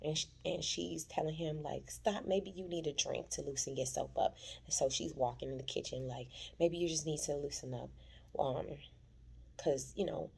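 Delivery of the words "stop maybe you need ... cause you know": seductive quote. Retold or imitated. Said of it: "That's how she said it".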